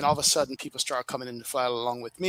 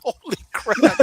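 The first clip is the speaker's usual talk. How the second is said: higher, louder burst of disbelief; a retold jaw-drop moment; amazed exclamation; 9 semitones higher, 8 dB louder, slower than usual. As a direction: blurt it out, stunned the thing talked back. AI controller answers him back.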